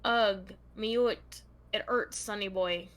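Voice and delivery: put-on a half-hearted stab at a Scottish accent. Host reading the killer's letter as written, attempting a Scottish accent. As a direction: read it out in tentative Scottish. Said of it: "read in a Scottish accent".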